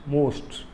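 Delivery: "most" in one effort, softly; one-syllable demo. Shown as a demonstration. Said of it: "only with a single effort I pronounced it".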